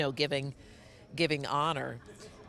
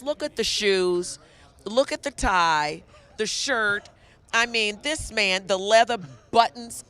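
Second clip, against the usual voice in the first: loud, gushing hype-up of his outfit; excited hype; 4 semitones higher, 8 dB louder than usual. Real, not acted. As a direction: show him off, loud and thrilled. Hyping up the interviewer's outfit.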